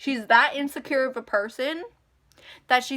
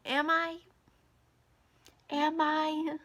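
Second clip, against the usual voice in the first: pointed retort; 5 semitones higher, slower than usual. Real, not acted. Bitter retort to grandmother's dismissal.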